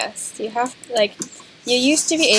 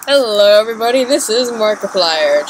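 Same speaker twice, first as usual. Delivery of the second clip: Markiplier impression; 7 dB louder than usual. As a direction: boom out a big channel intro. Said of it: "Just kidding".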